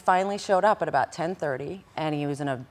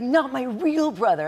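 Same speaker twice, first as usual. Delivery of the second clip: imitating the boyfriend; 10 semitones higher, 5 dB louder, slower than usual. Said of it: "this is exactly how he talked".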